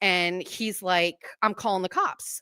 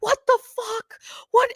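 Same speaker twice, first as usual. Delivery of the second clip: acted-out, very high, shrill screaming outburst; 3 dB louder than usual. Retelling how the repo guy screamed at her in the car: imitating someone screaming. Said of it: "he is screaming at me".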